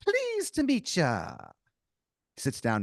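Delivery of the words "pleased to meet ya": stereotype Irish. Acted. Leprechaun-like stranger greeting the player, hammy Irish brogue. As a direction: ham up a leprechaun-style Irish barfly. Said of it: "He goes".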